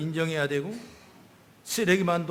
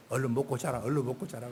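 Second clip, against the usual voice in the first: a hint of a grandmother coaxing, a little softer; lightly voiced grandmother; 7 semitones lower, 7 dB quieter than usual. Grandmother tells the grandson to eat and sleep, softly coaxing. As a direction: soothe the child toward sleep, gently. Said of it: "그 할머니는 뭐라고 하는지 알아요?".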